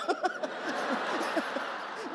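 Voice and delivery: quiet airy laugh; breathy laugh. Real, not acted. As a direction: laugh it off softly. Laughing at his surrender. (tawa kecil berdesah)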